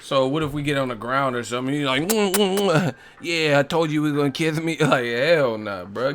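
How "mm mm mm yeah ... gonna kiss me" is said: high, louder hammed-up moan; mock moaning Mike. Mike moaning at the comedian on the ground, hammed up. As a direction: ham up the moaning.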